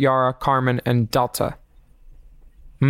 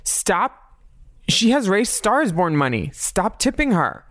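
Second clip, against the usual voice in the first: quoting Rhea Latre; 6 semitones higher than usual. Retold or imitated. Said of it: "to quote Rhea Latre".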